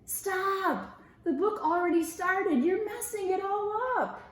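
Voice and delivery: high, exasperated scolding mouse; annoyed scolding. Acted. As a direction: scold him for ruining it. Rupert scolds friend.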